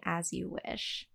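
soft, slow, tender line. Acted. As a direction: say it softly like a vow. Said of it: "we have to end saying".

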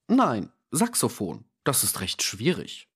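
a devout servant answering politely, a touch stiff; prim servant voice. Acted.

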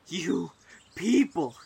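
angry. Acted. Enraged stranger's outburst.

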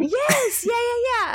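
excited. Real, not acted. Eager reply about Skins.

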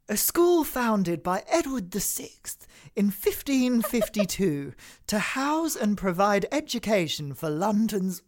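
lightly put-on upper-class reading; posh voice. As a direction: recover and read it haughtily. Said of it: "posh voice activating".

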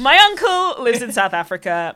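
My uncle lives in South Africa in a hammed-up Australian accent. Shown as a demonstration. Comedian redoing her line, mock Australian accent. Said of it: "say it like an Australian".

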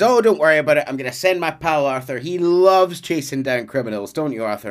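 lightly voiced hearty gang leader; Dutch. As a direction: play a gang boss volunteering his friend. Acting out Dutch talking up Arthur.

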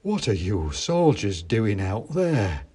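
slow, lightly voiced toy maker; a hint of a puzzled shopkeeper calling down. A narrator's reading. Toy maker calling to the soldiers, slow and lightly voiced. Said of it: "a voice from on high said".

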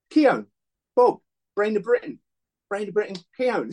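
high, excited voice teasing Keown; high mock Ian Wright mocking the nickname; Ian Wright impression. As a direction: chant the nickname high and gleeful. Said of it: "He went".

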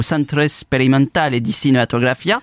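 put-on names the Italian film school in a light Italian accent; lightly rolled Italian accent on the school's name. Host names Rome's film school in a mock Italian accent. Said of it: "Votre accent italien est absolument fort".

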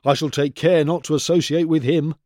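haughty, lightly voiced disdain; looking down his nose, mildly; sneering. A narrator's reading. Featherhead snubbing his neighbour, light disdain. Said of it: "sneered Featherhead one day".

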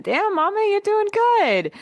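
high, slow smooth-talking flirt; Kyle flirting. Retold or imitated. Kyle hits on the disguised animals, high slow flirt. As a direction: drawl it out like a guy hitting on a woman. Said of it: "Kyle's like".

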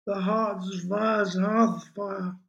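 put-on high, slow, drunken lament; tearful drunken reciting; maudlin, near sobbing. A narrator's reading. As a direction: wail the poetry slowly, close to tears. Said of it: "began to sob quietly".

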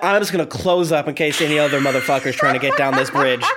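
fast, laughing mock throat voice; throat talking, laughing. Mocking his choking throat, laughing through a fast mock voice. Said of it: "your throat is like".

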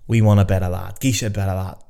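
put-on half-hearted go at a Scottish accent; fumbled, lightly Scottish impression of bandsmen; bad Scottish accent. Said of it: "I can't do a Scottish accent".

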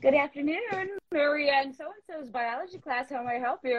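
polite work phone voice; phone greeting voice. Retold or imitated. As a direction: answer like a school office phone. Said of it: "the same way I pick up the phone at work".

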